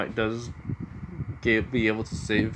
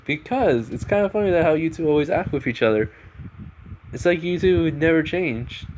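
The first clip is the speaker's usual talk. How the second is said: higher-pitched, lightly voiced girl; amused girl explaining; 5 semitones higher than usual. Misery explains why she laughed, lightly voiced high girl.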